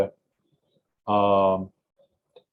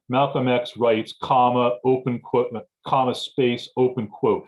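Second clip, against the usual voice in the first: dictating. Shown as a demonstration. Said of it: "you would go".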